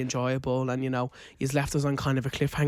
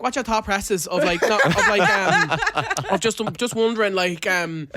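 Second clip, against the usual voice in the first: flustered rambling; 4 semitones higher, 4 dB louder than usual. Retold or imitated. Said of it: "that's literally how I said it".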